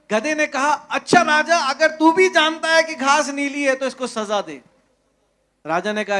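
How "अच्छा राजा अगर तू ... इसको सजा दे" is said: higher, pleading donkey voice, lightly voiced; a foolish donkey whining to the king; donkey's voice. गधा राजा से शिकायत करते हुए, ऊँची ढीठ आवाज़ में.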